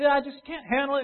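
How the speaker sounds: high-pitched imitation of an overwhelmed churchgoer; lightly hammed-up helpless complaint; mock melodramatic distress. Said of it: "melodramatic turmoil in their life".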